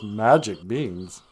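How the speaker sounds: drawn-out sceptical repetition; doubtful echo. Acted. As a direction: echo it back slowly, unconvinced. Jack echoes the goblin's offer doubtfully.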